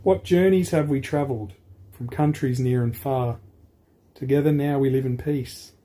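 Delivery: lively read-aloud for a class; picture book reading. Acted. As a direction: read the rhyming story brightly to children. Teacher reads a picture book.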